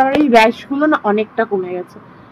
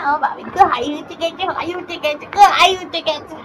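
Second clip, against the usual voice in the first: cooing to a pet; 4 semitones higher than usual. Real, not acted. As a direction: coax a sulking pet sweetly.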